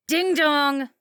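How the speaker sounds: put-on bully the kid like a spiteful mom; coked-up mom taunting her daughter at the wheel; mocking drunk mother. A narrator's reading. Christy taunting.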